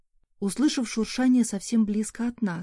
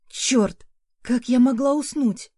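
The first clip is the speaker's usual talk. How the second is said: sharp curse at herself, a bit louder; cursing; 4 semitones higher, 4 dB louder, slower than usual. A narrator's reading. Mother waking in alarm, cursing herself. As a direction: swear under pressure, annoyed. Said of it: "Выругалась".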